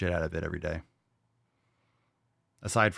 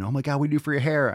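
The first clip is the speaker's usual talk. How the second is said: gushing women; 7 semitones higher, 4 dB louder, faster than usual. Retold or imitated. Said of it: "Women have always been".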